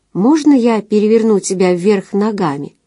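plain reading voice

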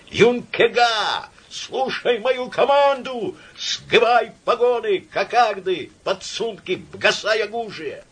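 howled command with guttural r; Юнкега with a throaty French r, howled high and slow; burred r. A narrator's reading. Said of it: "взвыл команду необычным, неслыханным, картавым голосом".

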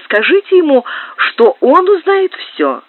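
high, urgent outcry, slowing at the end; crying out. A narrator's reading. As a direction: cry it out to him, pleading. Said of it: "вскричала графиня". (графиня вскрикивает, умоляя)

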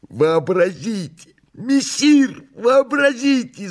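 very high, excited cat voice; joyfully excited cry. A narrator's reading. Behemoth exclaiming to messire, joyfully excited cry. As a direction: cry out high, bursting with glee. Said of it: "закричал возбуждённый радостно Бегемот".

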